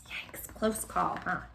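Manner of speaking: slow soft aside; hushed. Real, not acted. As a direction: breathe it out in relief.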